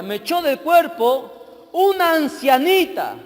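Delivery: high, loud, drawn-out fury; acted wrathful demon's cry; enraged demon shouting. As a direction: spit out hatred in slow, loud shouts.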